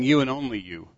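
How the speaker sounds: "You and only you" stressed firmly; very emphatic. Retold or imitated. Preacher voicing what Jesus meant, "You and only you" emphatic. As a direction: lean hard on "You and only you". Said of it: "Very emphatic".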